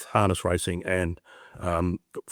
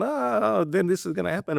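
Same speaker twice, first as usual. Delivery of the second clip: high, panicky mind voice; anxious inner voice; 10 semitones higher than usual. Retold or imitated. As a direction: voice the mind spiralling into catastrophe. Mind's anxious catastrophising voice.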